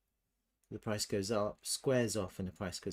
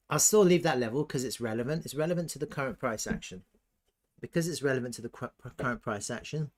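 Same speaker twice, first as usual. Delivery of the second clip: eating cereal; 3 dB louder, faster than usual. Real, not acted. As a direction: mouth full of cereal. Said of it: "Sorry, I'm eating my cereal as well".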